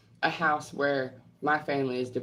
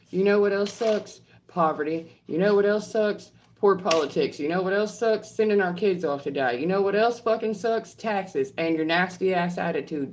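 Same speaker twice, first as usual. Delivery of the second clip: angry rant; 3 semitones higher than usual. Real, not acted. Ranting back at troll.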